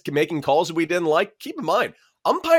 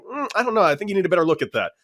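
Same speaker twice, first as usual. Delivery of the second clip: sly manipulating; 4 semitones higher, faster than usual. Retold or imitated. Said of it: "slowly manipulate them".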